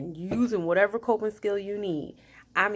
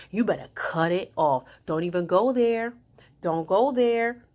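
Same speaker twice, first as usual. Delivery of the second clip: mom voice; 4 dB louder than usual. Retold or imitated. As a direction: scold like a mother, firmer each time. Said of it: "I had to use my mom voice".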